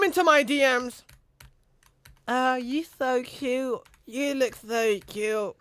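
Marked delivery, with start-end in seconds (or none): 2.3-5.6 slow, soft, put-on sweet girl voice; lightly hammed-up cute girl voice.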